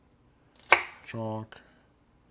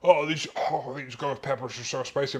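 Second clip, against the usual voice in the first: friend complaining about spice; 4 semitones higher, 3 dB louder than usual. Retold or imitated. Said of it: "and he's like".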